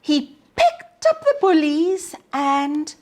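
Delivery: put-on lively storybook narration for young listeners; reading to children. A narrator's reading. Teacher reading a picture book to children, lively storybook voice. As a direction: read it like story time on the rug.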